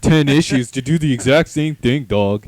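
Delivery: mocking a villain who keeps coming back, loud and hammy; mock villain threat. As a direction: promise revenge like a cartoon baddie.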